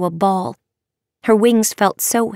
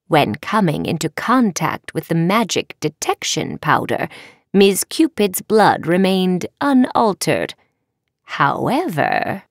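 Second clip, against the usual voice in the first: measured, deliberate professor's verdict; lightly voiced stern professor. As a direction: pronounce findings like a formal examiner.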